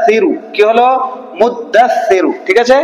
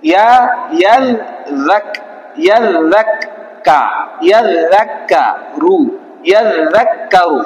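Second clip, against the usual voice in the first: ইয়াজাক্কারু built up syllable by syllable, very slowly; very slow build-up; much slower than usual. Shown as a demonstration. Teacher spells ইয়াজাক্কারু piece by piece, very slowly. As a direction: stretch each part of ইয়াজাক্কারু out long. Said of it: "ঠিক আছে".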